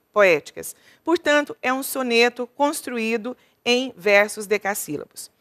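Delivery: ordinary talk, nothing marked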